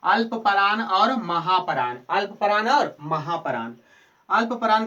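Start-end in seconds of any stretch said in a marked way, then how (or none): 0.0-2.0 slow, deliberate, a little louder; teacher to Bihar board students, dictating slowly; slow spelled-out terms. Shown as a demonstration. Teacher spelling out the two terms slowly. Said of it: "कितने प्रकार के?".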